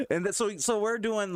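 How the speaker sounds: ordinary talk, nothing marked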